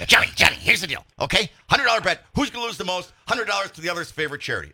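lightly mimicked co-host pitching a bet; a hint of a mock politician's patter; Rudy Giuliani. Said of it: "He's just like Rudy Giuliani when he talks".

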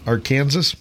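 Arkansas echoed as "ar-KAN-zus", rising; questioned pronunciation. Retold or imitated. Player querying the host's version, Arkansas as "ar-KAN-zus". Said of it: "It's not proper to say Arkansas".

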